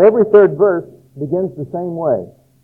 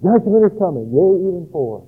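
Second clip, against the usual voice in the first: higher, ringing prophetic proclamation; modern prophet proclaiming; 4 semitones higher than usual. Pretend. A prophet today warning the churches, higher and ringing. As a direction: thunder it out like an old prophet. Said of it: "And then".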